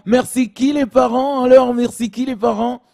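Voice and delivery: high, loud mock state official demanding thanks. Official shouting at the parents for gratitude, hammed up. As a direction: play the smug official fishing for thanks.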